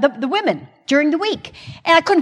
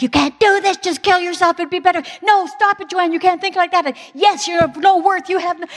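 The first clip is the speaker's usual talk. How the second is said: inner voices; 7 semitones higher than usual. Retold or imitated. Voices screaming in her head.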